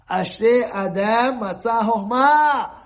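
"Ashrei Adam Matzah Chochmah" intoned slowly and deliberately, each word weighed; slow solemn recitation. Shown as a demonstration. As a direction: recite the verse slowly like scripture. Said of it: "The Torah is full of wisdom".

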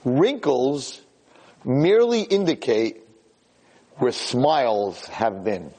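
slowed, savoured delivery of a quotation; poetic line. Shown as a demonstration. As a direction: let the line land slowly, like a poem. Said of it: "You'll like this 'cause you're a poet".

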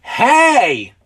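big high shouted greeting; friendly shout. A narrator's reading. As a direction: call out loud and friendly.

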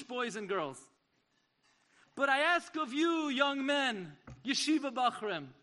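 lion-like charge. Retold or imitated. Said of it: "He looked like a lion".

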